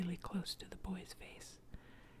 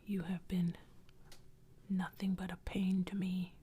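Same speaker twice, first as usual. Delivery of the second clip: lightly voiced ghost delivering a curse; cursing ghost. Ghost refuses the boy.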